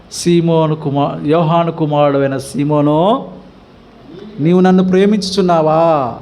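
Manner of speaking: slow, low, drawn-out formal address; mild mock-formal sarcasm. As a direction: needle him gently with his full old name, slowly. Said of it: "వెటకారం అంటారు దాన్ని".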